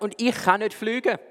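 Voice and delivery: whining hippo. Acted. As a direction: whine it like a sulky animal child. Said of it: "und so gejammert".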